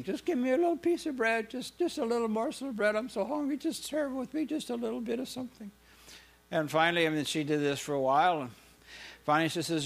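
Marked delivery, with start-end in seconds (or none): 0.0-5.7 high pleading beggar voice; desperate beggar girl pleading; begging girl. Acted. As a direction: plead high and small for a crumb. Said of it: "she was begging".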